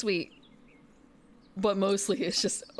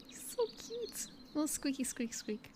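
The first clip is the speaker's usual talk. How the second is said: rubbery high squeaky toy; 7 semitones higher, 8 dB quieter than usual. Real, not acted. Cooing at cute bird card.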